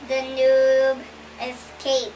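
"The noob escape" drawn out slowly; slow, deliberate "The noob escape"; slow announcement. Shown as a demonstration. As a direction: stretch out "The noob escape" like a title. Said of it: "let me tell the noob escape".

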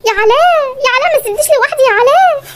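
high and fast, near-wailing his name; desperate high calling. Acted. Girlfriend left at roadside wailing after Alaa. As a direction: call after him in panic.

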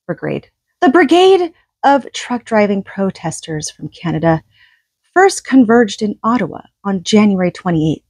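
brigade restarted in measured news-anchor reading; newscaster voice. Acted. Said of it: "Do you like my little, uh, my little newscaster voice there?".

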